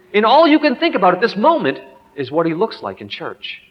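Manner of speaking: reproving Holy Spirit. Acted. Holy Spirit confronting a father mid-sermon, mildly reproving. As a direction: reprove as an inner voice, lifted in pitch. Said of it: "the Holy Spirit just knocks on my heart's door and says".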